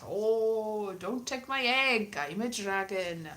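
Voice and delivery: lightly singsong mock-Welsh storytelling; terrible fake Welsh. Comic retelling the dragon's story, mock Welsh accent. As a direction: tell it in a bad Welsh lilt. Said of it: "terrible accents, not at all Welsh".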